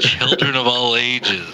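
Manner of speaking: ringmaster calling the crowd; grand circus-barker opening; showman announcer. Shown as a demonstration. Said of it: "Let me give you my best pitch then".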